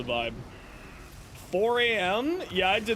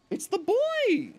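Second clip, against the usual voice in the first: excited greeting; 12 semitones higher, slower than usual. Real, not acted. Cat arrives, greets him.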